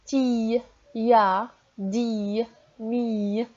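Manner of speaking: syllables read out again for the class; teacher rereading syllables. Shown as a demonstration. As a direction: reread each syllable slowly for the children. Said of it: "Relisez avec moi".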